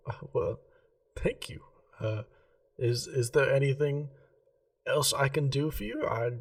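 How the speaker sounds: a hint of a prim gem-shop lady, keen on geometry; Remy the jeweller. Remy thanks the customer.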